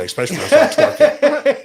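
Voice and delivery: laughing through the words; cracking up mid-sentence. Real, not acted. Laughing at own joke.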